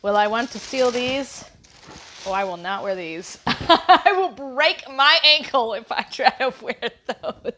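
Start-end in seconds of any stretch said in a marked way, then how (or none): 3.4-7.5 laughing. Real, not acted. Laughing about high heels.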